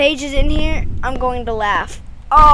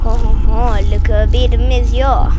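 loud gloat; 2 semitones lower, 6 dB louder than usual. Real, not acted.

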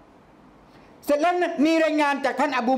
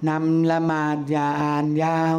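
gentle request; 5 semitones lower than usual. Pretend. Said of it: "ทำไมนบีไม่พูดดีๆ".

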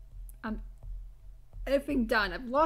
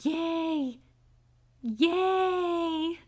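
Fluttershy; 3 semitones higher than usual. Acted. Battling Muse at Fluttershy cheers, sweet and sustained. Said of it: "Fluttershy battle between me and Muse".

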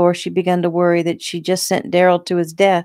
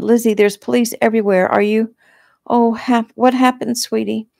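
higher-pitched, worried voice; alarmed concern; 6 semitones higher, 4 dB louder than usual. A narrator's reading. Friend finding Lizzie hurt, alarmed and worried. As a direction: let the alarm lift the pitch.

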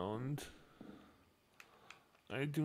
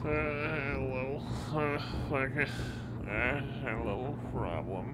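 raised voice calling; 6 dB louder than usual. Acted. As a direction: call into the dark.

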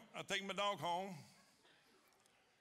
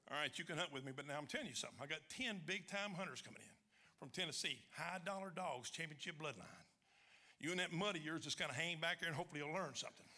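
lower, softer, grudging voice; a hint of a condescending hunter; 3 semitones lower, 5 dB quieter than usual. Hunt leader warning the newcomer to hang back, lightly condescending. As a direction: talk down to him like a know-it-all.

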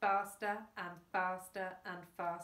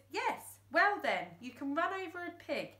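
smug reasoning; 7 semitones higher, 3 dB louder than usual. Acted. Fingers lecturing the boy, smug. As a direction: win the argument smugly.

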